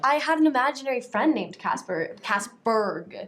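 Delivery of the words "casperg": Casperg with a clear G at the end; hard final G. Shown as a demonstration. Telling of an imaginary friend, "Casperg" with the final G pronounced. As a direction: sound the closing G in "Casperg". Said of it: "The G at the end is important".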